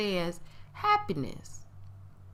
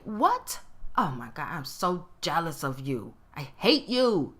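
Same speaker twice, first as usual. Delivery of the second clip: honest jealous outburst; 4 semitones lower than usual. Retold or imitated. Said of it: "bust out and say".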